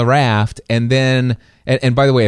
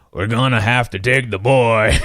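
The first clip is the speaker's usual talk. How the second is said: imitating Mister Friendly's accent. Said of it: "he has this accent".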